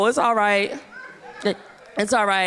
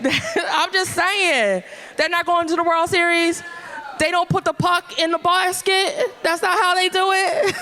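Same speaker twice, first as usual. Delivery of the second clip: laughing mock confusion; 6 semitones higher than usual. Mock confused sports questions, laughing.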